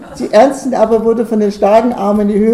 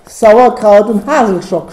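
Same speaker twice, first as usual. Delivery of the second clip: loud, slow comic oath; blustering curse; 6 dB louder, slower than usual. A narrator's reading. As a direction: spit out a drawn-out folksy curse. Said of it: "stalterte Christian".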